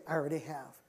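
low, gentle reply; gentle forgiveness. Retold or imitated. Wife forgiving her weeping husband, gently. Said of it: "it was the gentleness of God".

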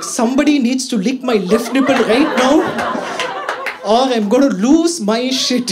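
frantic half-yelled demand; desperate inner voice. Retold or imitated. OCD brain yelling at him, laughing frantic demand. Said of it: "I was like".

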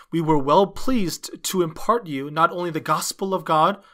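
ordinary talk, nothing marked

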